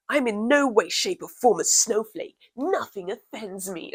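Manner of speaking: slow, drawn-out mock of a pompous troll. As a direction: lampoon him as someone not to take seriously. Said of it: "I have to do it in this voice".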